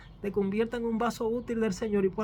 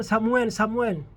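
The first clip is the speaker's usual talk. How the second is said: slow call; 6 dB louder, slower than usual. Acted. Lord calls again.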